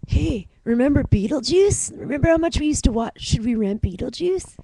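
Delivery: put-on nostalgic chirpy suburban accent; quick Stittsville accent. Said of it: "The Stittsville accent".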